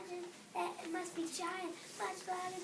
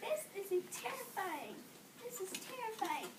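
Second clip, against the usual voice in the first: panicked elephants; 5 semitones higher, slower than usual. A narrator's reading. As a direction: panic as if the monster is at the door.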